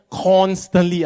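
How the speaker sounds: "constantly" drawn out slowly; stress on constantly. Shown as a demonstration. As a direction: lean on "constantly", stretching it out. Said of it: "I emphasize the word constantly".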